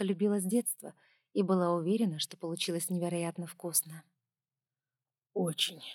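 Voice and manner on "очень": mouth full. A narrator's reading. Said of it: "С набитым ртом невнятно пробормотал Пол".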